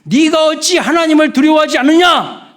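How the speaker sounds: high, forceful scolding; acted rebuke. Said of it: "꾸짖고 있어요".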